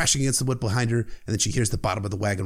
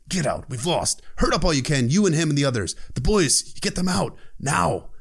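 screaming; 4 semitones higher than usual. Retold or imitated. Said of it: "screaming in her face".

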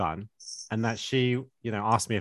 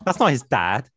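laughing, incredulous and higher; can't believe what she said; shocked disbelief; 5 semitones higher, slower than usual. Retold or imitated. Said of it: "I was like".

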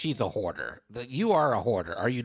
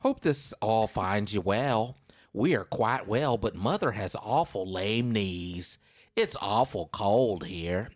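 dramatic reading. Shown as a demonstration. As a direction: savour every line like a letter from the past. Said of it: "harmonica for emphasis".

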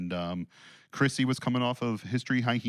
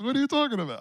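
mock scoffing; 13 semitones higher, faster than usual. Mock anti-testing bit.

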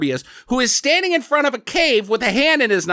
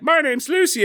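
higher-pitched imitation of a kid; child character; 8 semitones higher than usual. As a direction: answer as a little kid would, pitched up. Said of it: "this kid's like".

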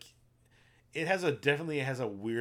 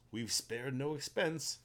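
quoting Hammond; 3 semitones higher, slower than usual. Retold or imitated. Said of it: "Hammond always says".

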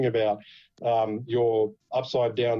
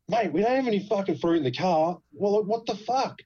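higher-pitched exasperated protest; retold scared protest; 7 semitones higher than usual. Scared driver protesting to a border officer, retold alarm. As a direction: imitate yourself pleading innocence, voice climbing. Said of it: "was fucking scared".

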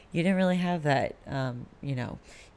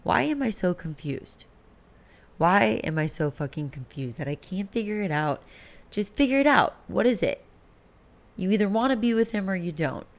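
higher-pitched, frustrated self-scolding; retold self-directed anger; 4 semitones higher than usual. Woman confused about her relationship, angry at herself. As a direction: act out being fed up with yourself. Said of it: "I would get angry at myself".

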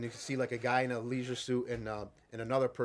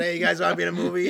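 casual hey guys; 5 semitones higher, 9 dB louder, faster than usual. Retold or imitated. Imagined director recruiting construction workers.

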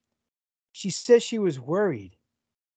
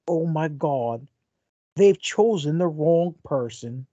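bad British accent; slower than usual. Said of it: "worst British accent".

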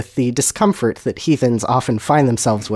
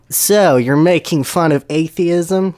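slow, higher probing question; shrewd interrogation; 5 semitones higher, slower than usual. Acted. Dumbledore interrogates the self-confessed troll, slow and shrewd. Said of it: "Dumbledore interrogated shrewdly".

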